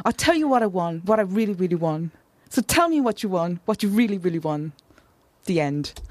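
theatrical, over-the-top British stage delivery of pop lyrics; mock Shakespearean declamation; overdramatic Shakespearean reading. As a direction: recite it like a hammy Shakespeare actor. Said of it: "How Shakespearean did I sound just then?".

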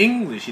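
"English" stressed on its first syllable; front accent. Shown as a demonstration. Teacher explains the accent, "English" stressed at the front. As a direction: lean on "Eng", keep "lish" light in "English". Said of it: "액센트가 앞에 있어가지고 English 이렇게".

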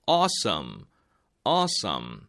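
ordinary delivery

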